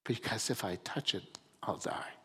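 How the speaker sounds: hushed fear. Acted. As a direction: breathe it like a dreaded secret. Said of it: "She tells the serpent this language".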